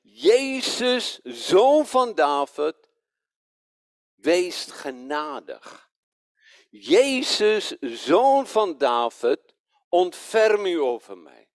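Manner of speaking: imitating a beggar calling out. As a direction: cry out slowly for mercy, voice lifted. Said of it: "hij begint te roepen".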